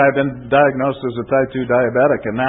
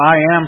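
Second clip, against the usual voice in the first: "I am" punched higher and louder; emphatic; 4 semitones higher, 5 dB louder than usual. Shown as a demonstration. Preacher quoting Jesus to the congregation, emphatic. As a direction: hit "I am" hard and high. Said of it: "one of Jesus' emphatic".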